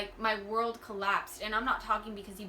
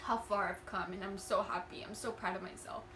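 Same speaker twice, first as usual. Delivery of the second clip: real tearful crying; 4 dB quieter than usual. Real, not acted. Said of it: "sorry that I'm crying".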